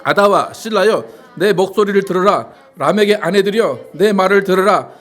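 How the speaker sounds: loud, measured congregational scripture reading. Acted. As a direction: lead the verse out loud, drawing out the final word.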